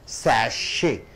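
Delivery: Sachet as SASH-ay, falling on the second syllable; weight on SASH in Sachet, let the end drop; stress on first syllable. Shown as a demonstration. Teacher repeating a word for students, stress on first syllable. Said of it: "The first syllable should be stressed".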